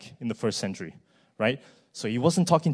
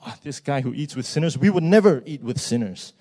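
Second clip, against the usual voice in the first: mock disdain, swelling louder on the refusal; scoffing; 2 semitones higher, 6 dB louder than usual. Preacher voices Pharisees looking down on sinners, scoffing. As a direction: play an indignant, self-righteous objector. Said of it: "were scoffing at him about".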